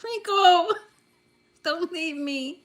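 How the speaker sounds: playful pleading at a lost viewer; mock begging. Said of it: "I'll beg him".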